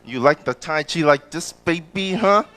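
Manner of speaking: mock-seductive Asian-accented flirting; sexy Asian accent. Flirt showing Tai Chi as she leaves, mock-sexy Asian accent. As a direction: coo a come-on in a put-on Asian accent. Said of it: "You like my sexy Asian accent".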